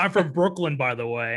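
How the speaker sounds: hint of Brooklyn in a retold line; imitated Brooklyn accent. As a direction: put on a passing Brooklyn accent. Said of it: "a Brooklyn accent".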